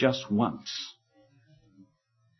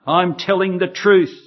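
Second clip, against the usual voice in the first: cursing denial; 5 dB louder than usual. Acted. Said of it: "he cursed against himself".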